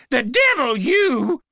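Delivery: high, wild accusing cry; crazed scream. A narrator's reading. Knife-wielding woman accusing the cop, high scream. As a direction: shriek the accusation.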